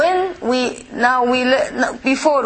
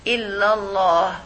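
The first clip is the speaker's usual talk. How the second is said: imitating the adhan; 2 semitones lower than usual. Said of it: "The sheikh is saying".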